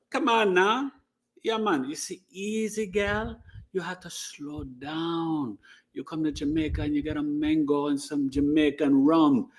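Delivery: easygoing Jamaican lilt, slowing down; relaxed Jamaican accent, quiet and unhurried. Pretend. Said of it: "a request from Lisa to do a Jamaican accent".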